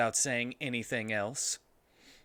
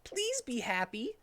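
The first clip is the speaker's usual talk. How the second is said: Tails pleading; 12 semitones higher than usual. Acted. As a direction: gently beg him to cheer up. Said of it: "said Tails".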